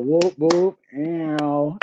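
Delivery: celebratory whoop-whoop; light hooting cheer for a graduate; playful cheer. Pretend. Host congratulates guest on graduating, playful cheer.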